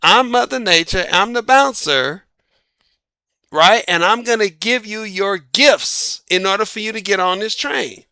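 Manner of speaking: a hint of a showy hostess at the door; Mother Nature as bouncer. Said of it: "And so Mother Nature, like".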